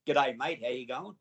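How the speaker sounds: thick, matey Australian greeting; best Aussie accent. Retold or imitated. Greeting a workman to get inside, in broad Aussie accent. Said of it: "put on my best Aussie accent".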